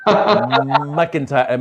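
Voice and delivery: rough attempt at Scottish; mock Scottish accent. Shown as a demonstration. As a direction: have a go at the name in Scottish. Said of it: "my Scottish accent".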